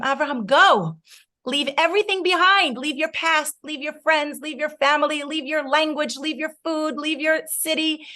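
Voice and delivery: a hint of a commanding God calling Avraham away; voicing the command to leave; lightly voiced divine command. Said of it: "Hashem said to him".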